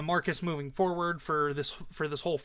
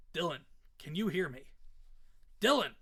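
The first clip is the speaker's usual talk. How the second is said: alarmed call; 3 dB quieter than usual. Acted. Father calls to his unresponsive son, alarmed. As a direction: call out to rouse him, mild alarm.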